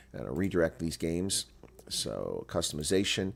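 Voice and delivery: just woke up, low and groggy; early morning voice, still half asleep; deep morning voice. Real, not acted. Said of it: "my voice is like this 'cause it's early in the morning".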